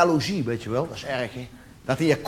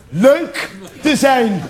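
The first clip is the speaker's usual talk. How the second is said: drawn-out tease; 4 semitones higher, much slower than usual. Acted. Slow teasing punchline.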